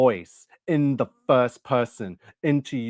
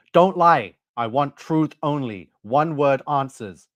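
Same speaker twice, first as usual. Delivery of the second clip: higher and louder on "Don't lie", then firm; stern demand; 4 semitones higher, 4 dB louder than usual. Retold or imitated. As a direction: snap the order, then settle into a firm demand. Retold interrogation, demanding truth.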